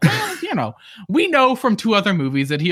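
high, sarcastic well-you-know; mock sarcastic reply; sarcastic retort. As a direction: scoff at the idea. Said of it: "And I'm like".

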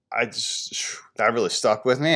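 soft unvoiced whisper. Real, not acted. Recalling the fat boy insult, in a whisper. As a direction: let it slip out in a hush. Reflecting on being called fat.

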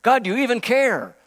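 a mock exasperated cry at God; doubting questions. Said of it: "Not by questioning".

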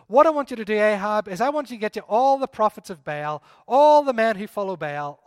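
loud, commanding challenge to the king; bold challenge. Acted. Elijah loudly challenging Ahab to a contest.

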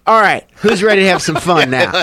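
high, loud rallying of the crowd; rally a crowd as if nothing happened; mock upbeat emcee. Retold comic addressing a terrified crowd.

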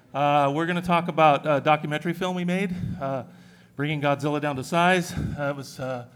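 slightly winded speech; out of breath. Real, not acted. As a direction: talk while catching your breath. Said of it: "I'm a little out of breath".

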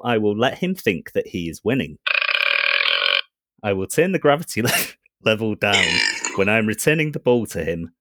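calm computer voice; robot voice. Acted. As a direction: speak like a ship AI. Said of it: "My robot voice?".

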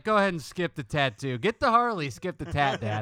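loud, high urgent plea; pleading kid. Retold or imitated. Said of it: "I was like".

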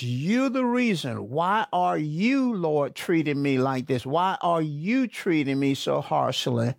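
a touch of blaming frustration; frustrated Moses. Acted. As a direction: accuse the Lord, mildly heated. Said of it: "projects his frustration".

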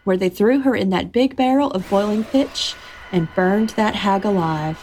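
storytelling voice, steady and unhurried; story narration. A narrator's reading. Host reading the boo hag tale aloud, storytelling voice. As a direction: tell the folk tale to the listeners.

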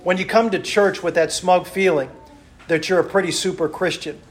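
loud, rhythmic pulpit delivery, listing each item; fervent preacher's list; preaching. Acted. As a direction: preach it to the congregation.

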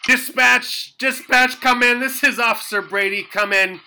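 urgent radio call. Acted. Calling dispatch in panic.

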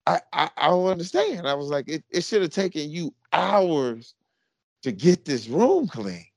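high, stammering disbelief; playing it up puzzled; baffled dad. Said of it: "And I go".

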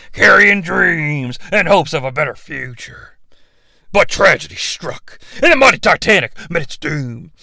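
lightly voiced wrestler promo; Hulk Hogan voice. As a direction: read it like a hammy wrestling promo.

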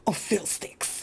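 lightly voiced little girl; little girl caught. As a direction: imitate a child caught in the act. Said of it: "she starts putting things away real fast and goes".

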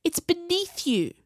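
high, slow scornful hiss. A narrator's reading. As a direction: hiss it down at him. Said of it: "Viola hissed".

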